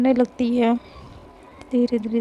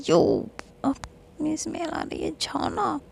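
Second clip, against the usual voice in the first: playful push-away; 5 semitones higher, 5 dB quieter than usual. Acted. Faiz pushes her away, smell.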